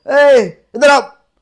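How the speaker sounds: high, loud, very slow call. Shown as a demonstration. Teacher showing the hela call when trouble comes. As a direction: summon someone from afar, stretched out. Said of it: "ये बोलते हैं".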